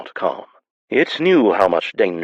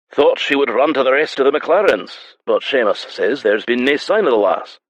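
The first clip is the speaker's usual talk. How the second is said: rough tavern man; 6 semitones higher than usual. A narrator's reading.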